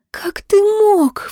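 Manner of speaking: high, slow, breaking sob; sobbing. A narrator's reading. Girl confronting the thief of her pendant: high slow sob. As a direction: let the question break into a sob. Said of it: "всхлипнула она".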